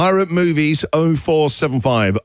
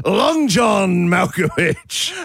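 pirate voice; 3 semitones higher, much slower than usual. Pretend. Pun title in pirate voice.

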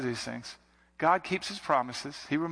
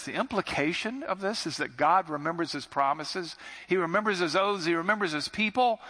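each phrase climbs higher, he remembers his people on top; rising preaching build; 4 semitones higher than usual. Acted. Preacher driving home God's faithfulness, rising. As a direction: build the list up and up in pitch.

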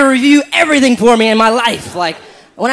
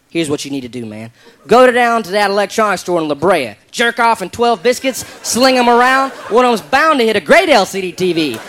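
redneck voice. Retold or imitated. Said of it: "I'll be like".

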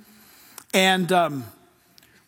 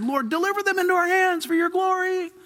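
raised, higher prayer voice; praying aloud; 11 semitones higher than usual. Retold or imitated. Pastor recalls praying over the valley with his kids, high fervent prayer. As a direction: lift the prayer up high toward heaven. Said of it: "and we said".

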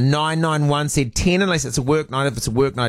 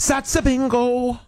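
catchphrase voice; 10 semitones higher, slower than usual. Pretend. Quoting film catchphrase.

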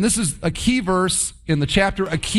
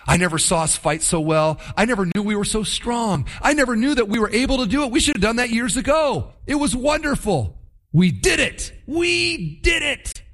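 gloating excitement; 4 semitones higher than usual. Acted. Soldier home crowing to his wife, rising to a giddy high. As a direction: build from a brag into giddy triumph. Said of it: "They would have gone home to their wives and said".

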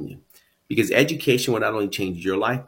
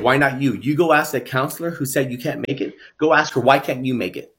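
urging father; 4 semitones higher than usual. Retold or imitated. Father teaching his daughter to challenge a doubting counselor, urging. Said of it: "her father taught her to ask".

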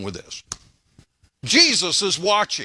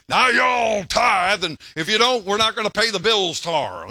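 mock pushy preacher; 2 semitones higher than usual. Mocking a pastor who nags the church about tithes. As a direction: ham up the pastor nagging for money. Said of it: "get up every Sunday and say".

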